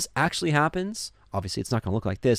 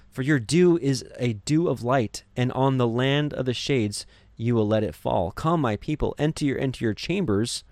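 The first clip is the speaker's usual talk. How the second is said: scripture reading. Acted. Reads scripture aloud.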